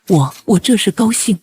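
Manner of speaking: slow, halting, mildly tearful; tearful joy. Acted. Mother explaining her tears to son, tearful joy. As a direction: stumble on the first word, happily choked up. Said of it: "妈，别哭了".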